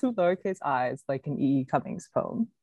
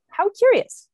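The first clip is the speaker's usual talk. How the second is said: much higher and louder, mock marvelling; mock curious; 8 dB louder than usual. Reading an odd email, mock curious exclamation. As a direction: play up the surprise of a recalled thought. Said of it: "I thought".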